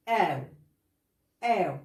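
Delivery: آو said as a gliding ow; ow sound. Shown as a demonstration. Teacher showing students how o plus u sounds. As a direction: glide the vowel into ow. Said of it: "اتنطق".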